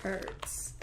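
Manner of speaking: slow, dragged-out fake comfort; mock sympathy. Gamer mockingly consoling a knocked-out player, slow. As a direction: pretend to console while teasing. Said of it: "I just wanted to say that".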